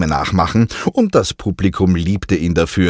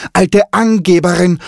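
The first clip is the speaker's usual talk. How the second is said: even higher squawk with Angeberin hammered; mocking parrot; 11 semitones higher, 5 dB louder than usual. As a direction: jeer it louder, leaning on Angeberin. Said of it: "spottete Kiki".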